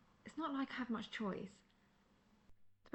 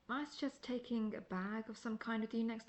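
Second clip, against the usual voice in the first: laughing. Acted. Amused advice to the novice.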